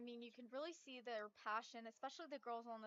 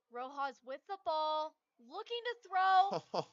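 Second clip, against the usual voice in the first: higher and much louder, slowing; excited; 6 semitones higher, 16 dB louder, slower than usual. Real, not acted. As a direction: build the tension of the last snap. Live call of the final play.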